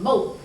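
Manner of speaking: "Moe" said with no r, a long o; southern Moe. Shown as a demonstration. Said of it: "we might say Moe".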